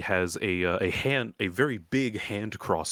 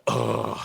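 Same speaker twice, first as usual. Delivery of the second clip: unvoiced throaty "ugh"; groan of annoyance. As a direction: groan in shared exasperation. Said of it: "go like".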